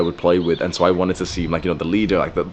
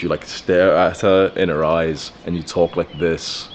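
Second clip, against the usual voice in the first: slow flirting voice; 2 semitones lower, slower than usual. Shown as a demonstration. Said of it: "activate that slow, resonant, masculine voice".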